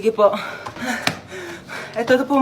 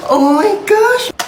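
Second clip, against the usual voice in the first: much higher and very slow, stretched out; delighted squeal; 10 semitones higher, 4 dB louder, much slower than usual. Acted. Child thrilled to see the cheesecake from mama, stretched delighted squeal. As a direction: gasp it out in delight.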